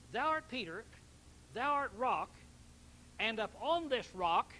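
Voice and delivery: stressing "art" and "upon" as the Catholic reading; mock false reading. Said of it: "now this is false, but this is what they'll tell you".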